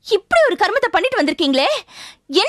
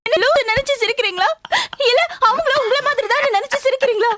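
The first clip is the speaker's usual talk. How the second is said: higher, exasperated and near breaking; frustrated pleading; 4 semitones higher than usual. Acted. Wife to husband who won't stop laughing, exasperated and higher. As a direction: demand why he keeps laughing.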